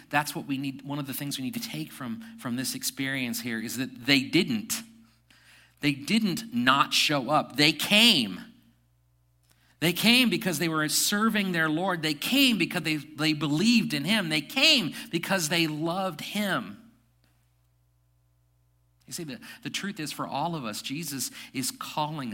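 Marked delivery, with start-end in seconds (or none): 5.8-16.8 preaching. Real, not acted. Building preaching repetition.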